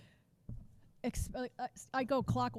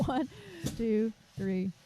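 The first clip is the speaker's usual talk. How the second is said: louder count-in for the class; slower than usual. Shown as a demonstration. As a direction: call the count so everyone hears. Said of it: "You want everybody to be able to hear that".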